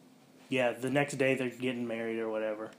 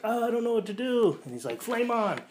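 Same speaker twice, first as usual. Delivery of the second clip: much higher panicky squeak; mock panic; 11 semitones higher, 3 dB louder than usual. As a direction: squeak it helplessly. Johnny panics.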